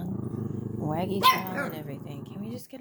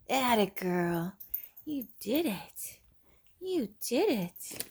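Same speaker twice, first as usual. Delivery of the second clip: excited praise; 3 semitones higher, slower than usual. Real, not acted. Owner cheering her puppy for dancing. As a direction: stretch the praise out happily.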